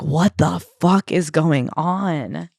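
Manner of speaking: slow, stunned parent voice, dragging each word; shocked parents. Retold or imitated. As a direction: play the baffled parents, drawn out.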